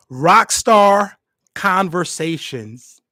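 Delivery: slow booming announcer reveal, drawn out. Pretend. Host announcing his podcast name in a big announcer voice. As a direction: unveil the podcast name like a movie trailer. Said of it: "I don't know why I talk like that".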